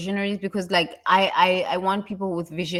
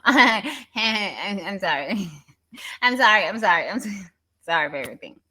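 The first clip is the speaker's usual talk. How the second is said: laughing mock apology. Mocking apology again, laughing.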